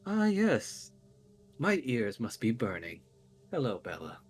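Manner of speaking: theatrical lord making his entrance; Strahd. Acted. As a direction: ring out grandly, then settle smoothly. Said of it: "hear a familiar voice ring out".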